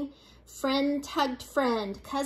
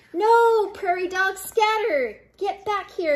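high, urgent shout; yelled; 7 semitones higher, 4 dB louder than usual. A narrator's reading. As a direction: yell orders in a panic, pitched up. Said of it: "yelled Pip".

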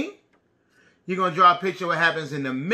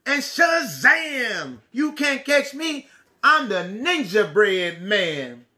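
ninja battle shout; 3 semitones higher, much slower than usual. Acted. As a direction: shout kung-fu cries and tease the chasers.

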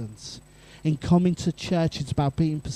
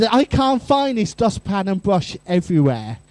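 put-on sulky teenager; 3 semitones higher, 6 dB louder than usual. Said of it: "giving me evils here".

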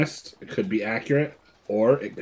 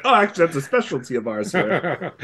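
much higher, louder mock French through laughter; higher laughing fake French waiter voice; laughing mock maitre d'; 8 semitones higher, 5 dB louder than usual. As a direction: play a snooty waiter while cracking up.

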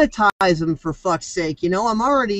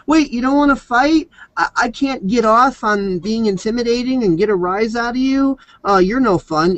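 troll voice; 5 semitones higher than usual. Acted. Voicing a disappointed troll.

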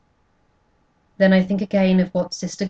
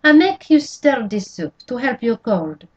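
lilting French-Canadian landlady, raised voice; Canadian accent; 5 semitones higher, 6 dB louder than usual. Acted. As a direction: warm Canadian neighbour offering soup. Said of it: "her Canadian accent making the words sing".

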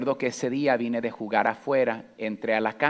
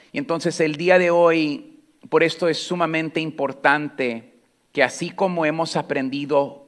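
loud, raised sermon delivery; full-force preaching; 3 semitones higher, 4 dB louder than usual. Acted. Pastor urging the congregation from the pulpit, loud preaching.

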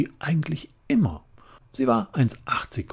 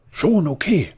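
Flora's voice; 9 semitones higher, 9 dB louder than usual. A narrator's reading. Flora, big hairy girl, shrugs it off.

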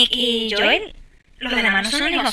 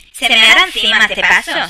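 louder worried outburst; alarmed loud remark; worried exclaim; 5 dB louder than usual. Real, not acted. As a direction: blurt the worry out loud. Fears the child will wet himself.

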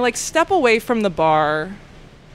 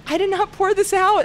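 defensive protest; 10 semitones higher than usual. Retold or imitated. Retelling own protest to angry customer.

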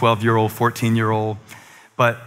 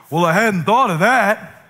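sarcastic; 5 semitones higher than usual. Retold or imitated. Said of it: "advice that makes you wanna slap 'em".

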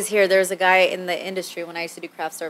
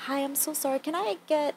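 timid apology; 7 semitones higher, 11 dB quieter than usual. Retold or imitated. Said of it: "I do do that".

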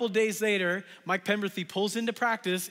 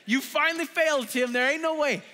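mock doubtful congregation; 8 semitones higher than usual. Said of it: "you're like".

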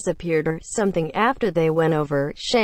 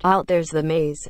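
ordinary delivery, nothing marked

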